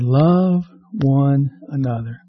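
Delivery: preacher quoting Jesus slowly and tenderly; slow tender quote. Acted. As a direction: say it like a gift. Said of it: "quoting Jesus, slowed".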